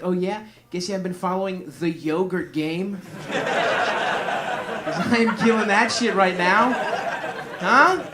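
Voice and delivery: cocky boast. Acted. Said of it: "And then Greece's like".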